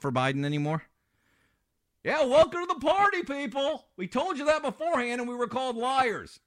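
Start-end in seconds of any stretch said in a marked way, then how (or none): 2.0-6.4 mocking sarcasm. Host mocks late-waking media.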